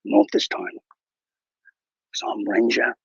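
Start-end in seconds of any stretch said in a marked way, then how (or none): 0.0-0.8 pitched way up, a hammed-up plea; mock begging. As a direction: squeak out a fake plea for mercy. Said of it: "begging for your life, saying".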